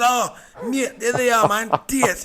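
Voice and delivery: put-on high, excited Sunderland accent; strong Sunderland accent. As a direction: imitate a mate crying out in broad Sunderland. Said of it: "he's got a strong accent".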